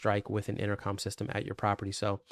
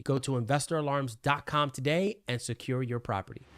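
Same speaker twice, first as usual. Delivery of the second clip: upbeat sponsor read, a bit higher; 3 semitones higher than usual. Acted. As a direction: pitch the alarm service like a radio spot. Mid-video sponsor ad read.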